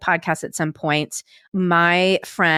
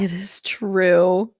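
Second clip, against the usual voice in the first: slow, breathy whisper; much slower than usual. Real, not acted. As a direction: whisper it slowly. Soft agreeing aside.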